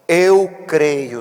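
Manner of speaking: loud cry of faith. A narrator's reading. Father of the boy crying out to Jesus, loud. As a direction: call it out like a desperate father. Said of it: "clamando com lágrimas".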